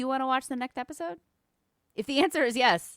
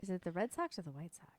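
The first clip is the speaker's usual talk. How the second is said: whisper; 3 semitones lower, 11 dB quieter than usual. Real, not acted. Whispered question.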